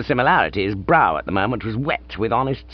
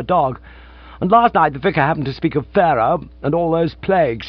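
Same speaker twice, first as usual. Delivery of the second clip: lightly voiced, higher nervous young man; Gussie's voice; 4 semitones higher than usual. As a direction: chatter on like a flustered toff. Narrator voices Gussie's long explanation.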